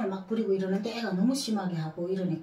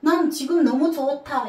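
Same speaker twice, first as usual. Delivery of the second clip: put-on higher, slow, singsong child reassuring mom; imitating her son; 6 semitones higher, 6 dB louder, slower than usual. Son reassuring his sorry mother, lightly voiced singsong boy. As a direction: sing it lightly like a boy insisting he's fine. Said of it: "이렇게 하는 거라".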